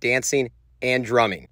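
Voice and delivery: measured reporter narration; news voiceover. Acted. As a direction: read it like a TV news package.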